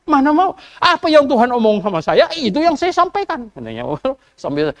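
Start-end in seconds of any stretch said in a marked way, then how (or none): 0.1-3.5 raised, defiant refusal; firm prophet reply. Retold or imitated. Prophet Mika refuses the messenger, firm and raised. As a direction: stand firm, no flattery. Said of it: "Dia bilang".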